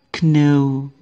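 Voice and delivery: Kno with the K sounded; wrong pronunciation. Shown as a demonstration. Teacher showing the beginners' mistake, Kno. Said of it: "ada K-nya".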